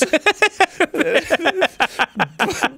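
a high rising laugh. Real, not acted. Laughing high mid-way through the prank call.

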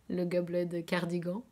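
English name said with a French accent; thick French accent on English words; French pronunciation. Real, not acted. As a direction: say the English title à la française. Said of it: "je l'ai dit à la française".

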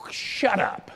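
a sudden hissed shut up; hushed. Retold or imitated. God scolding a whiner.

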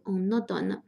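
"en automne" run together, n carried into "automne"; liaison. Shown as a demonstration. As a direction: link "en" into "automne" as one word. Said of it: "也要连读".

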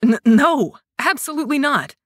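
stammered denial through a stifled laugh; choked laugh. A narrator's reading. Kai denying the dunk while choking on a laugh. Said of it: "a coughing, choked laugh".

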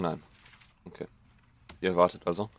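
ordinary delivery

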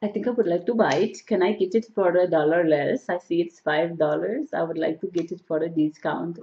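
put-on Indian accent. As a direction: haggle like a shopper in an imitated Indian accent. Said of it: "doing an Indian accent".

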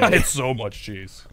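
laughing through the words. Real, not acted. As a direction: giggle it out slowly.

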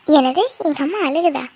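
slow, drawn-out surprise; startled question. Acted. Daughter hears her mother is crying, startled. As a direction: stretch the question in disbelief.

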